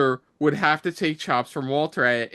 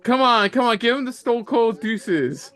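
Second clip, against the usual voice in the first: excited cheering; 8 semitones higher than usual. Real, not acted. Cheering on wrestler on screen.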